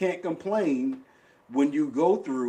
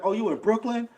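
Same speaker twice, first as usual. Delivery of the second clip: put-on higher, lively voice of a girl on the phone; mock excited girl; 7 semitones higher than usual. Retelling the girl who claims Manhattan, higher mock excitement. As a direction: pitch it up like an eager girl. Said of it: "She was like".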